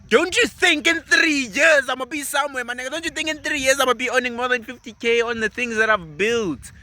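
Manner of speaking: fired-up rhetorical challenge. Real, not acted. To the viewer, arguing his plan beats a job: fired-up rhetorical question. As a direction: challenge the viewer: don't you think I'll make it.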